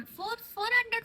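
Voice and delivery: फ़ोर said high and pressed; stress on फ़ोर. Shown as a demonstration. Explaining the water tank, stressing फ़ोर. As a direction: hit फ़ोर, correcting the number. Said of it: "not फ़ोर".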